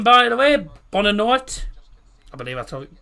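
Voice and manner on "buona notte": put-on Italian accent. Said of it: "If you are Italian".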